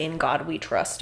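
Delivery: ordinary delivery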